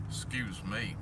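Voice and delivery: hoarse, throat catching; rough throat, needs clearing; frog in throat. Real, not acted. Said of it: "Got a frog in my throat".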